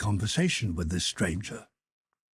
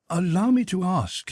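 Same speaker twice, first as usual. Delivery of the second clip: higher-pitched, courteous request; polite inquiry; 7 semitones higher, 3 dB louder than usual. A narrator's reading. Pierre asking the stranger, polite inquiry. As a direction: ask permission politely, voice lifted.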